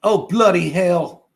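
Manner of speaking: a quick stab at a British exclamation; English accent. Pretend. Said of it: "Can you do an English accent?".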